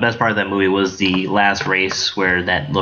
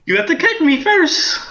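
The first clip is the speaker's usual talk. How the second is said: laughing. Pretend. S2 joins the leprechaun bit.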